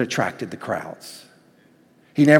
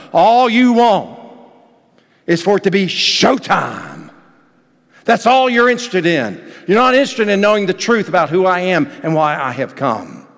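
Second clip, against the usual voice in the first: forceful rebuke; 5 semitones higher, 4 dB louder than usual. Acted. Jesus rebuking the crowds, raised.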